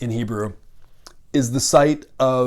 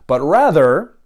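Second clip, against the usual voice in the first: whispered aside; 2 semitones higher, 4 dB louder, slower than usual. Real, not acted. Turning to the alternative reading.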